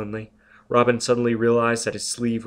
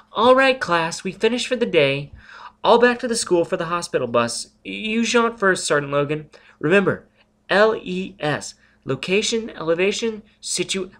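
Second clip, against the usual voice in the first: higher, louder brisk schoolteacher call; teacher addressing class; 9 semitones higher, 4 dB louder than usual. Acted. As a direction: round up the class cheerfully. Robin dismisses her jaunting class.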